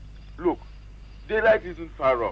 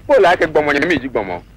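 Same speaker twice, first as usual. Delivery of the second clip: loud fast call; 7 dB louder, faster than usual. Acted. Trying another language loudly.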